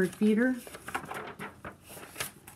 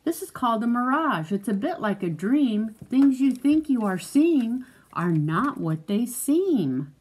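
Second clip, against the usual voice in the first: measured, lilting picture-book read; reading to a child; 3 semitones higher than usual. Acted. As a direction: read it out clearly for a young listener.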